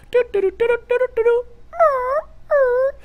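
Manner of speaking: high little owl walking noises; cute owl. Retold or imitated. Describing cute Instagram owl videos, high little doo noises. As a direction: play a cute waddling owl. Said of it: "the owl just walks up like".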